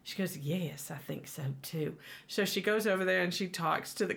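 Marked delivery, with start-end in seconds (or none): 0.4-2.0 lightly imitated Southern waitress; Southern accent. Waitress agreeing about the outfit, Southern accent. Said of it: "they've got that southern accent".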